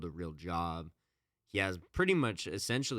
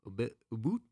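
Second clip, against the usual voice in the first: higher, hammed-up Canadian "a boot"; mock Canadian accent; 4 semitones higher, faster than usual. Host tests the Canadian "a boot" in a bad accent. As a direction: try the "a boot" vowel. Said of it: "They say a boot instead of a bout".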